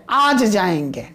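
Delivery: आज held long, then falling away; weight on आज, जाएंगे let drop; stress on आज. Shown as a demonstration. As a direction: lean on आज as the key word. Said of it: "समय पर यहां पर महत्व दिया गया".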